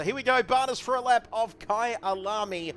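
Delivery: punchy on-air announcement; live race commentary. Real, not acted. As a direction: launch the lap like a race commentator.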